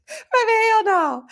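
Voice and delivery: high, slow, loud exclamation; emphatic refusal. Real, not acted. Host refusing a friend's snow-day visit, emphatic refusal. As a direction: draw it out high in comic horror.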